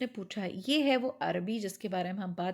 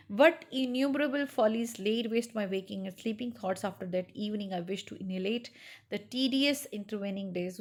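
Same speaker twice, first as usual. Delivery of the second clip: slow, measured literary reading; story reading; much slower than usual. Acted. Teacher reading Araby to students, slow story narration. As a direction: read each phrase slowly to the class.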